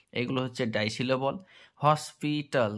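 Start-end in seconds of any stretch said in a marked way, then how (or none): 1.8-2.7 হসপিটাল slowly in three parts, hos-pi-tal; syllable by syllable. Shown as a demonstration. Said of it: "তিনখানা ভেঙে করলাম". (হসপিটাল তিন ভাগে ভেঙে, ধীরে)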